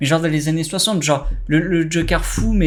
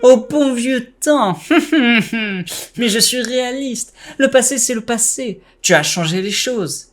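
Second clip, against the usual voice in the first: cartoonish joking villain; Joker voice; 4 semitones higher than usual. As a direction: tease him like a playful Joker. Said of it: "j'ai fait une voix de Joker".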